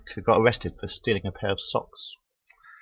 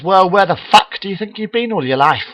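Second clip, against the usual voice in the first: loud devil; 9 semitones higher, 6 dB louder than usual. Acted. Devil laughs at the pope.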